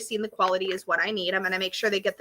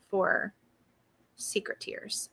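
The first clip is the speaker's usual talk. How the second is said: secretive whisper; 2 semitones lower, 10 dB quieter, much slower than usual. Real, not acted. Teasing secret tiers, not spoiling.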